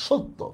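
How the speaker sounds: সত্য with the first vowel closed to o, "shotto"; o-sound in first syllable. Shown as a demonstration. Teacher showing learners the vowel change, সত্য said "shotto" with closed o. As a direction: say সত্য as "shotto", rounded o after sh. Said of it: "ওকার হয়ে যাচ্ছে".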